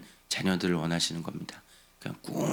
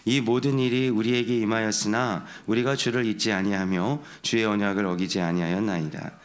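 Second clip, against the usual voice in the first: steady, slightly raised reading of the psalm; scripture reading. Real, not acted. Pastor leading the congregation's reading of the psalm, steady and raised. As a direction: read aloud together with the congregation. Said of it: "같이 한번 읽어보겠습니다".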